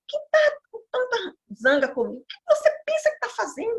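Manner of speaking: retold crying plea, pitched very high and fast; crying question. Dreaming woman crying back at her attacker, tearful and high. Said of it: "chorando e sem entender".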